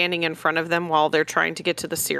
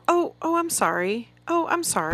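pitched-up, fluttery "oh, I'm sorry"; high flustered apology; 8 semitones higher than usual. Retold or imitated. Shopper apologizing to strangers in the store, high and fluttery. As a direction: imitate her own reflexive store apologies. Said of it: "I'm like".

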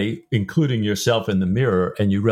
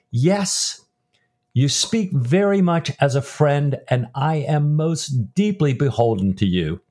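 raised pitch, earnest character reading; dramatized book reading; 4 semitones higher, slower than usual. Acted. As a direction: read it as Jack's heartfelt, formal reply.

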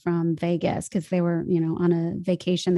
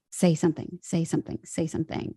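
fading to a whisper; 2 semitones lower, 6 dB quieter than usual. Retold or imitated. Inner voice urging her on.

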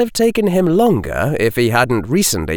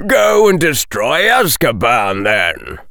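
mocking call; 3 semitones higher than usual. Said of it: "called the scarred man".

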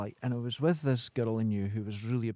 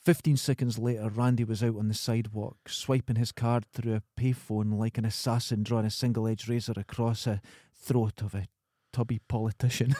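reading aloud; 3 semitones lower than usual. Acted. Reads novel passage aloud.

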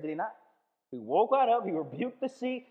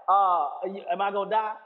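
1 mock panic; 5 dB louder than usual. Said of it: "Some are like".

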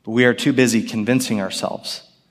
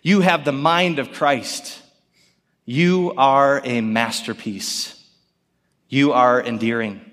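reassuring God's voice; slower than usual. Retold or imitated. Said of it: "God's thoughts sound something more like this".

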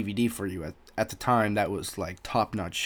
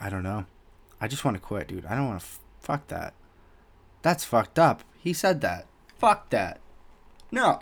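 progressively angrier. Retold or imitated. Employee venting to girlfriend about the insult, progressively angrier. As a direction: work yourself up from unsure to a sharp refusal. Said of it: "I just get progressively more angry".

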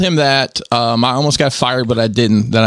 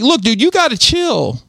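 a higher, put-on dude voice telling him to relax; 8 semitones higher than usual. Telling the pushy scammer to chill, in a higher put-on dude voice. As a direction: lightly put on, like a laid-back dude. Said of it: "I was doing this voice".

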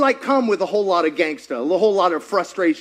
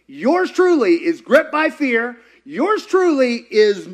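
slow confession; slower than usual. Retold or imitated.

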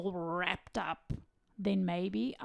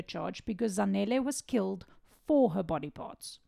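composed, serious narration. Real, not acted. Host resuming the case after laughing, serious voice. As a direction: read the case facts soberly and evenly. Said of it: "cue serious voice".

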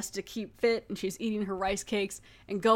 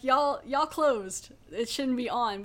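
exasperated; 2 semitones higher, slower than usual. Retold or imitated. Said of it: "'Cause I'm like".

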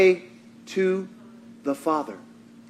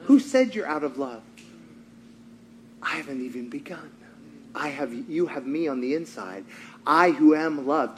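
much softer, lower, gentle; gentle God; 7 semitones lower, 10 dB quieter than usual. Retold or imitated. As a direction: speak as God, hushed and tender. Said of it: "And God whispered".

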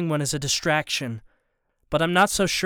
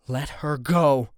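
low warning; slower than usual. A narrator's reading. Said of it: "warn him".

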